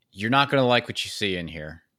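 mock call, shouted out loudly. Retelling calling out to parents coming in the door: retelling a shout. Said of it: "I just shout out".

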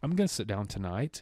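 put-on woman's voice. Imitating what every woman supposedly says, in a put-on woman's voice. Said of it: "And I was doing my woman voice".

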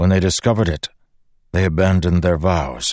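ordinary talk

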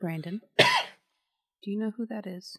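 mild, gentle voice. Acting out what they would do in the scenario, the speaker addresses Brandon: speaking softly. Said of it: "I am going to softly say".

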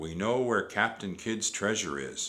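ordinary delivery

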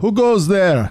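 loud, high-pitched shout. Calling out in character on watch to wake the camp: loud shout. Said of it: "I will shout loudly enough to wake our camp".

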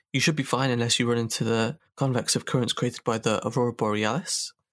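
usual speaking voice

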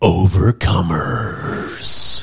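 on-air radio station announcer delivery. Announcing the season's theme word, in a radio announcer voice. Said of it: "that was like a radio voice".

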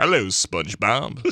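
put-on cartoon character voice. Hosts trading SpongeBob impressions on the show: Plankton voice. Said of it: "That's my best impression".

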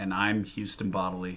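sounding really sad. Introducing himself after the other hosts, sounding sad. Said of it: "Houston sounds really sad".

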